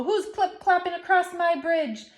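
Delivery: high, loud troll roar. Acted. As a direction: bellow it like a troll. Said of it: "A roar rose up from below".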